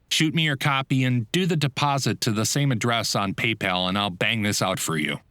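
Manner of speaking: sounding totally normal. Retold or imitated. Half-asleep voice actor reassuring the client on the phone, falsely bright. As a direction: pretend to be wide awake and professional. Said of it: "trying to sound like everything's normal".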